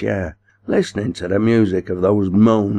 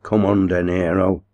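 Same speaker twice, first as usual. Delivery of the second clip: commanding; 3 dB louder than usual. Acted. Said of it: "commanded the boss".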